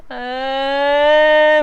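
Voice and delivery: put-on long, high drawn-out whimper of a crying toddler; imitated child's whine. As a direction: stretch it into a slow high whimper. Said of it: "막 이러면서 울어요".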